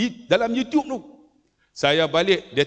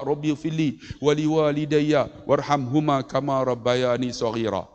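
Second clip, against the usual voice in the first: lower-pitched Arabic recitation; measured, lowered supplication; recited prayer; 5 semitones lower than usual. Shown as a demonstration. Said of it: "doa, kak".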